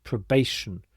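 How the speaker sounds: probation with "ti" pronounced sh; sh sound demo. Shown as a demonstration. Teacher showing learners the T I combination, clear sh in probation. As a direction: model probation, turning the "ti" into sh. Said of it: "this T I combination is pronounced sh".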